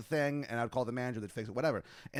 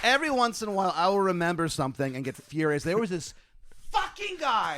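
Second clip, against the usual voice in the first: fired up; 4 semitones higher, 5 dB louder than usual. Real, not acted. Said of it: "You're fired up now".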